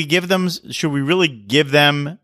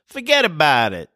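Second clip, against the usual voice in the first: New York accent; 5 semitones higher than usual. Shown as a demonstration. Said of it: "there's one that's ubiquitous in New York".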